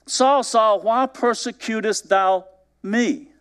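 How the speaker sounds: a mild divine call, lightly voiced; solemn heavenly call, unhurried. Voice from heaven speaks.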